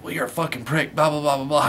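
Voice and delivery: mock-indignant blah-blah; mocking rant. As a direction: rattle off her complaint dismissively. Mocking an angry caller's rant.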